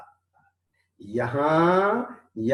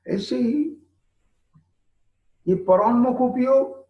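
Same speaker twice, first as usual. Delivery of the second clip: raised, emphatic urging; 10 semitones higher than usual. Acted. Preacher urging the listener to drop outward focus, raised and emphatic. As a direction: push them to let go.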